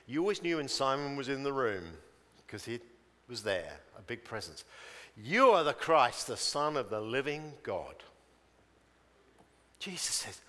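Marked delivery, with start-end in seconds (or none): 5.1-8.0 loud, bold declaration; jumping straight in. Acted. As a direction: burst in as the eager first to answer. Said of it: "jumps straight in".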